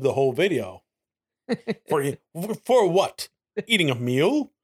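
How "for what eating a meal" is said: mock-indignant questioning; playful imitation of a theatrical protester; Charles Doja impression. Mimicking the clip's indignant questions.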